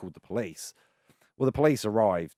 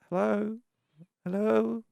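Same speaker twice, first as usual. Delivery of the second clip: calling out; 13 semitones higher, slower than usual. Retold or imitated. Lost actor calling out.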